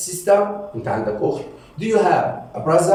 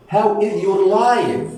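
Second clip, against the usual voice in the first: higher, very slow teaching question; slow, lifted language-lesson delivery; slow modelling; 4 semitones higher, much slower than usual. Shown as a demonstration. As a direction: stretch each word out for learners.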